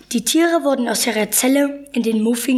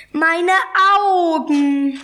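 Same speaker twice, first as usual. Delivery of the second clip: mild, slightly raised cry of dismay; pained exclamation; 5 semitones higher, 4 dB louder, much slower than usual. A narrator's reading. Zebra dazzled by glaring sun, mildly pained cry. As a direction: wail it lightly, with a break between words.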